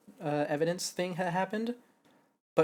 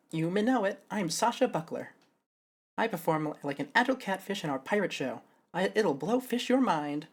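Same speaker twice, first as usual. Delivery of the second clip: lightly voiced show performer; 5 semitones higher than usual. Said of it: "Sasha's show persona".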